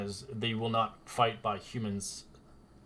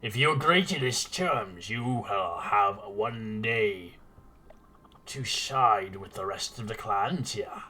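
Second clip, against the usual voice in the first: lightly voiced lizardfolk warrior laying down a threat; slow, firm, a hint of menace; stern lizardfolk; 3 dB louder than usual. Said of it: "the lizard folk says".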